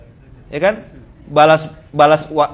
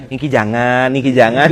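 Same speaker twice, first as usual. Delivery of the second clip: gentle, soft-spoken quote; 3 semitones lower, 5 dB louder than usual. Retold or imitated. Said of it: "pelan-pelan ngomongnya ya".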